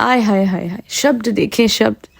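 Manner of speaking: low, muted tut-tutting lament; mock dismay. Podcaster reacting to a boxer's insult, in low mock dismay. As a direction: feign being scandalised, under your voice.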